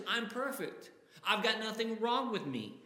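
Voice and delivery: preening mock boast of being flawless; pompous boast. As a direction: puff yourself up, mock pompous. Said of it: "That kind of pompous or egotistical attitude".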